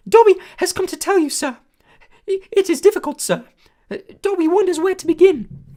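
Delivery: high, loud squeaky elf voice; a small eager servant creature, awed; squeaky house elf. A narrator's reading. House elf greeting Harry, high squeaky and awed. Dobby voice.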